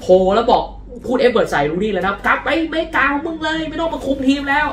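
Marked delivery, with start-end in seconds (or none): 2.2-4.7 mock jeering fan. Angry fans jeering Rooney.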